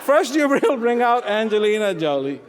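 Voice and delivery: high, loud, mounting comic outburst; exasperated protest. Acted. Woodcutter protests to God, punchline.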